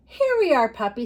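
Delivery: put-on bright high, loud storybook girl greeting; little girl. Teacher reading a puppy story to children, little girl's excited voice.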